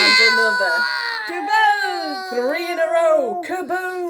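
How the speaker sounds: high, loud, building thrill; excited shout. A narrator's reading. Reader counting exploding barrels, excited shout. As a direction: shout each new hit. Mounting run of hits.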